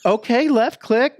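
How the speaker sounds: put-on high, slow old-lady voice; mock old lady. Old lady following computer instructions wrongly, slow high voice. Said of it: "he pretends to be some old lady".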